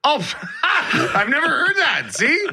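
high laughing outburst. Real, not acted. Co-host laughs hearing Ferda, high laughing shout. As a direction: burst out laughing in disbelief.

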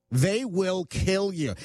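slow, high, every word weighted; emphatic warning. Acted. To Canadians about grizzly bears, a slow emphatic warning. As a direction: drive home the danger slowly.

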